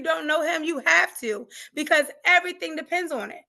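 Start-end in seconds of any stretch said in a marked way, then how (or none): none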